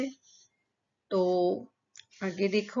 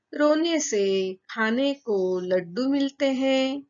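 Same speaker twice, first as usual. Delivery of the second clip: put-on higher, louder child voice; child's cheeky claim; 4 semitones higher, 3 dB louder than usual. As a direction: say it like a clever little boy. Child Anil explains crying trick. (बच्चे की ऊँची, चंचल आवाज़)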